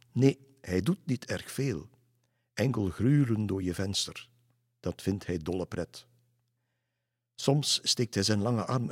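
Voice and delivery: lightly dramatic storytelling recitation; reciting a rhyme. A narrator's reading. Children tell Lisse about the long man, reciting a verse. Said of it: "zegden een soort van versje op".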